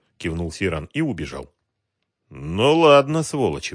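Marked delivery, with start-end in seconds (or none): 2.3-3.7 smirking. A narrator's reading. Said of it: "ухмыльнулся Ахмат".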